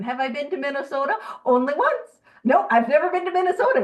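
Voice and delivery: a Midwestern accent sneaking in unintentionally; slipping into Midwestern accent. Real, not acted. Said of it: "I don't mean to do the accent".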